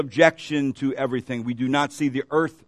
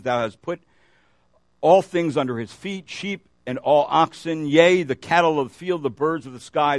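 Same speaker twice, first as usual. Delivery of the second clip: measured, even reading of a psalm; scripture reading. Acted. Preacher reading the psalm to his congregation, measured scripture reading. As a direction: read the verses steadily to the congregation. Reads Septuagint version aloud.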